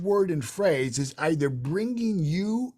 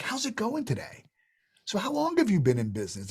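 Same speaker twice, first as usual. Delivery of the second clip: I really wanna know; 5 semitones higher than usual. Shown as a demonstration. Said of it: "I really wanna know tonality".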